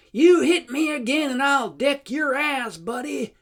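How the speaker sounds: loud, high bawling New York threat; hammed-up angry New York yell; bawled threat with a New York accent. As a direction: bark it in his ear like an ugly New York tough. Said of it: "bawls in my ear".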